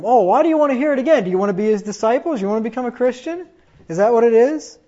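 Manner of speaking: preacher mocks Pharisees' scornful questions, mocking tone. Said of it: "Now he resorts to mocking them".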